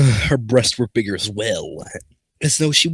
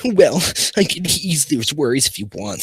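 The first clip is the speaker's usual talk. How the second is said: seductive; 5 semitones higher than usual. Acted. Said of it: "she said seductively".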